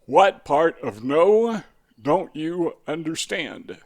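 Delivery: slow, loud mock bully line; mock bully retort. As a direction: drag it out like a bully who won't be questioned. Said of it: "Number four is this".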